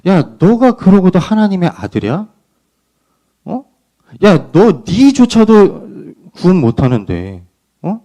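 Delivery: taunting sneer at a man on a cross; mocking jeer. Mocker jeering at Jesus on the cross, lightly voiced mockery. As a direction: jeer at him like the mocking crowd. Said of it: "이렇게 놀렸다고요".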